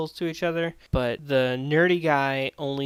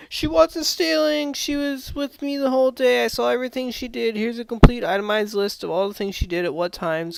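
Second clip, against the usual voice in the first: much higher, louder overeager anime hero; heroic anime nerd; 10 semitones higher, 7 dB louder than usual. Retold or imitated. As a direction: defend her like a breathless anime creep. Nerd heroically defends the girl.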